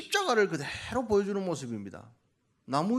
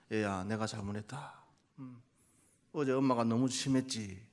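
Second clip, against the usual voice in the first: gentle parent apology; 7 semitones lower, 6 dB quieter than usual. Shown as a demonstration. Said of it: "해보세요".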